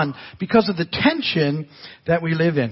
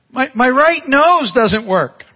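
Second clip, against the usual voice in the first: mock teary little boy voice, slow; crying child; 5 semitones higher, 5 dB louder, slower than usual. Grandpa imitating his crying grandson at night, teary.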